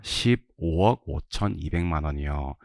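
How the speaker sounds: slow, measured recital of the amount; slow drill reading. Shown as a demonstration. Teacher has class practise reading amounts, slow drill reading. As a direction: read the figure out slowly in chunks.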